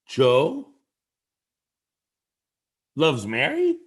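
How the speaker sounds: "Joe", pause, then "loves Mary" rising into a question; broken-up question, rising on both "Joe" and "Mary". Shown as a demonstration. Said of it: "put that vocal question mark at the end".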